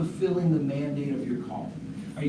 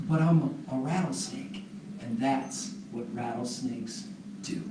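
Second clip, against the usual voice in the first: cool matter-of-fact snake; 4 semitones lower, 6 dB quieter than usual. Acted. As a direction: shrug it off coldly. Snake calmly justifies itself.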